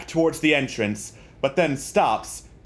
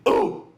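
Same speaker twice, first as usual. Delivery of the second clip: walrus noise. Retold or imitated. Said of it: "I can confirm they sound like".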